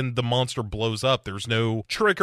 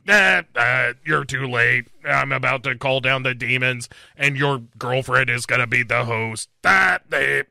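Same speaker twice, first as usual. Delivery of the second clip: gloating villain; 3 dB louder than usual. Retold or imitated.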